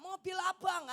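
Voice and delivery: high, loud call; retold shout. Bystanders shouting at the couple about the car, loud yell. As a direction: yell it out as an accusation. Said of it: "waktu mereka teriak".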